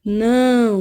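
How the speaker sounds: não held out on its nasal vowel. Shown as a demonstration. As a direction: let não ring through the nose. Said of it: "serve pra dar um som nasal".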